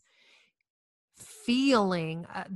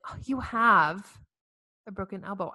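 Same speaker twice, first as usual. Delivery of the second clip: breezy doctor. Shown as a demonstration. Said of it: "Did you hear the difference?".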